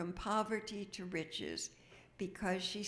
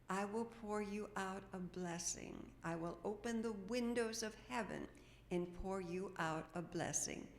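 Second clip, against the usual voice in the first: scripture reading. Acted. Reading Malachi scripture aloud.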